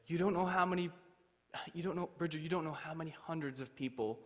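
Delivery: emotional sister. Retold or imitated. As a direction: imitate a sister struggling to get it out. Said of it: "she almost started crying".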